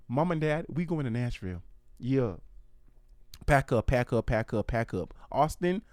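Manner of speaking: lightly voiced mock Southern twang as a bossy little girl; half-hearted country-girl accent, bossing the family; odd put-on accent. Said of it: "I don't know what this accent is".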